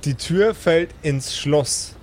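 slow, measured scene setting; calm storyteller over music; game master narration. A narrator's reading. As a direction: set the scene for the players.

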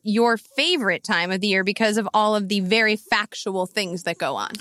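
dry sarcasm, tongue in cheek; sarcastic. Real, not acted. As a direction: lay the sarcasm on thick. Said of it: "I am using the sarcasm button here".

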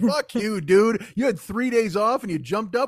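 mild mock outrage; pissed-off knees. Jesus's knees complaining to Jesus, mildly outraged.

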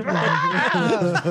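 comic persona's strangled yowl; Bobcat Goldthwait howl. Shown as a demonstration. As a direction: try out the signature roar. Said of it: "It's the worst Bobcat".

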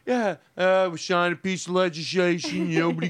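slurred comic presidential impression; Donald Trump. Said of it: "I can do Trump pretty".

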